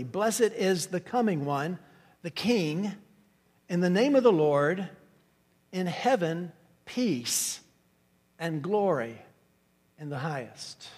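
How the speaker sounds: each phrase set apart with pauses; measured scripture reading, phrases separated; Greek word order read. Shown as a demonstration. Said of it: "here's the way that this statement reads".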